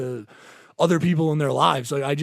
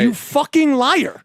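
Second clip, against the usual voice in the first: slow, higher, drawn-out insult; slow mock anger; 6 semitones higher, slower than usual. Retelling the tenant's lie to his friend, slow and scornful. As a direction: spit it out slowly.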